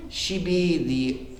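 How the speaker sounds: slow, halting mock ramble; hammed-up confused reporter; rambling questioner. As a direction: stumble through the question.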